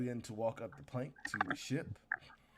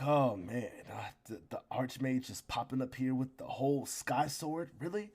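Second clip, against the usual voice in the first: indignant disbelief; 4 dB louder, slower than usual. Acted. Captain fumes at the Archmage on his watch, outraged.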